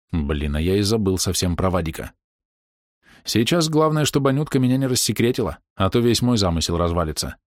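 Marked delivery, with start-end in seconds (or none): none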